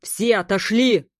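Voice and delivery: loud, slow barked command; captain barking a warning; barked order. A narrator's reading. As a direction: bark it at everyone to get back. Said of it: "рявкнул Смит".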